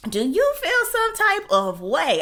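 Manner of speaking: sharp high sassy question; high sassy challenge; sassy retort. Retold or imitated. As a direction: throw it back at him. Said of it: "I said".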